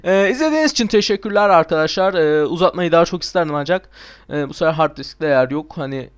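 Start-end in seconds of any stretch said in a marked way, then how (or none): none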